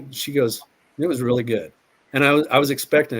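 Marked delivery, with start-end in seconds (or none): 1.0-1.7 understated, calm reply at usual pitch. Retold or imitated. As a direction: answer evenly and calmly. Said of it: "she had this calm about her".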